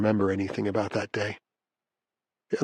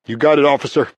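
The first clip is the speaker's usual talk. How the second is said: louder reply down a corridor; calling back; 4 semitones higher, 6 dB louder than usual. A narrator's reading. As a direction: call your answer back to the guard. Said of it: "I call back".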